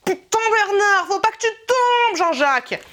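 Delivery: panicked Marseille-accent exclamation, hammed up; mock Marseille accent. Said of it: "je prends l'accent espagnol ou l'accent marseillais". (accent marseillais exagéré, paniqué)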